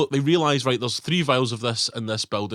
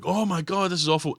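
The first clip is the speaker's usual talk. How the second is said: higher, mock horrified gasp; mock shock; 5 semitones higher than usual. Villain reads his own death news, mock shocked and higher. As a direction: act lightly shocked. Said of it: "he's like".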